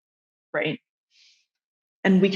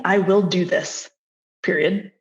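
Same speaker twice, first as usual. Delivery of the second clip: firm. Shown as a demonstration. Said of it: "instead of saying".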